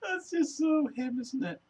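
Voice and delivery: talking through helpless laughter; laughing while talking. Real, not acted. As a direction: squeeze it out between laughs.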